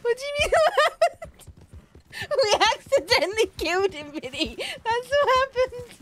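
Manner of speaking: high, loud through laughter; words breaking into laughs; laughing hard. Real, not acted. Cracking up about the killing.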